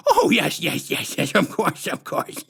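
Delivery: high, slow sugary put-on voice, far above the narrator; sickly sweet menace, drawn out; syrupy sinister clown woman introducing herself; creepy clown lady. A narrator's reading.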